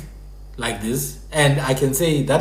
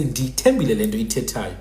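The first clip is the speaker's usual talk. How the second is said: lower-pitched Xhosa sample; Xhosa pronunciation; 4 semitones lower, 4 dB quieter than usual. Shown as a demonstration. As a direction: demonstrate the Xhosa version with nd. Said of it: "a Xhosa would say".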